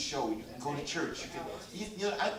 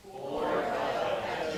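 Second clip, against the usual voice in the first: slow, restrained choral repeat; half-hearted group recital; much slower than usual. Real, not acted. Congregation repeats the preacher's point, half-hearted. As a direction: recite it dutifully and slowly together. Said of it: "You can really say that if you wanted to".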